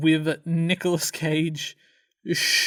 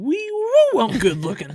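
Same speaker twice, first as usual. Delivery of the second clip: John Travolta impression; 10 semitones higher, 5 dB louder than usual. Podcast host quoting a favourite film moment, playful impression. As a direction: play a preening movie star, hammed up. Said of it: "I adore John Travolta going".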